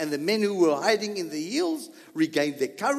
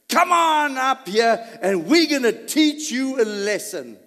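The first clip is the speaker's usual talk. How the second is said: higher, louder taunt from the outpost; taunting shout; 7 semitones higher, 9 dB louder than usual. Retold or imitated. Outpost men taunting Jonathan, louder. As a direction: jeer from above.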